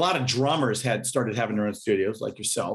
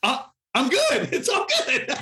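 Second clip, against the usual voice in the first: higher, slowed, laughing through it; 13 semitones higher than usual. Retold or imitated. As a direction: brush it off with a laugh. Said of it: "And I was like".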